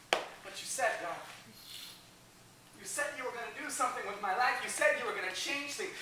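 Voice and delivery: soft, half-whispered disappointed plea; hushed complaint. Acted. Believer quietly complaining to God, hushed and let down. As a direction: murmur it, hurt and let down.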